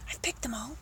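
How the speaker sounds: very soft, secretive whisper. Acted. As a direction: report back under your breath. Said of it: "I whispered to the pelican".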